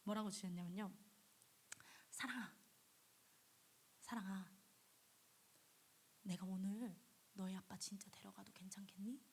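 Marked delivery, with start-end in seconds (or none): 2.1-9.2 gentle question from God. Acted.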